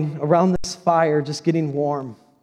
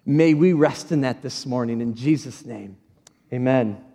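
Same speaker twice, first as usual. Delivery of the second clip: prayer. Acted. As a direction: pray it out gently. Closing prayer before sermon.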